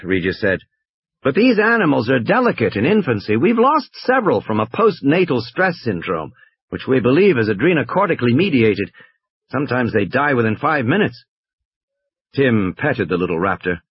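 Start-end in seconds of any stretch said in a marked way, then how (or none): 1.2-11.2 slightly raised, earnest explaining tone; a hint of a fussy corporate guide; lightly voiced park official. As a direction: explain like a careful company man.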